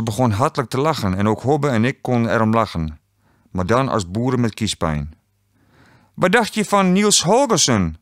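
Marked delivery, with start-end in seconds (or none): 6.1-8.0 high, teasing question; amused, laughing. A narrator's reading. Quiz host mocking a wrong answer, laughingly high. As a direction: tease as if holding in a laugh, pitched up. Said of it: "lachte Astrid".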